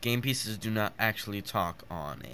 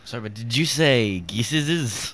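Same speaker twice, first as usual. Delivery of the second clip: teasing disbelief; 2 semitones higher, 9 dB louder, slower than usual. Real, not acted. Teasing a wrong plural.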